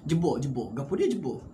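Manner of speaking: quoting deep Kelantanese Malay; Kelantan dialect. Shown as a demonstration. Preacher showing listeners hard local dialect words, Kelantan dialect. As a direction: put on a Kelantan Malay accent. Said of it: "bahasa Kelantan hak dalam-dalam sikit".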